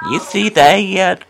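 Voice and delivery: talking Black to the woman at the bus stop; black accent. Retold or imitated. Lightly put-on Black American accent to a stranger at the bus stop. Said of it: "I was talking black to her".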